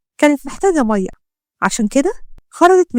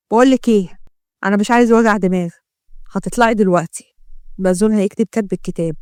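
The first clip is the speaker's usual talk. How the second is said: lower, knowing menace; suspicious gangster; 3 semitones lower than usual. Acted. Gangster taunts the doctor about the police, lower and menacing. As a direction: taunt her with what she saw. Ahmed threatens her mother.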